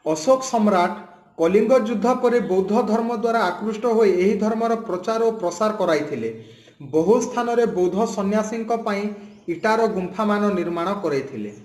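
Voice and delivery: reading an Odia textbook passage aloud, quick and even. Shown as a demonstration. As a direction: read it off the page like a lesson text. (Odia पाठ्यपुस्तक से पढ़ना)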